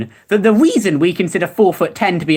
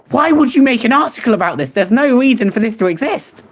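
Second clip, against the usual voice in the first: higher-pitched, exasperated disbelief; incredulous protest; 4 semitones higher than usual. Real, not acted. Streamer ranting at a pointless article, incredulous.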